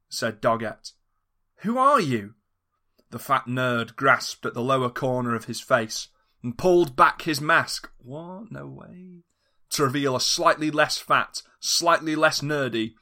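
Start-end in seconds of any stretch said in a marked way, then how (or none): 1.6-2.3 high, startled who are you; a high alarmed cry; startled question. Acted. Mystery villain reveal question. 8.0-9.2 hushed mock disbelief; a quiet staged gasp. Narrator's mock shock aside.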